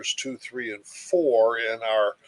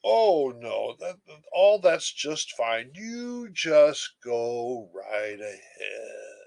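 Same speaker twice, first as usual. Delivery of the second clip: relaxed reply; slower than usual. Retold or imitated. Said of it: "I sigh and relax and say".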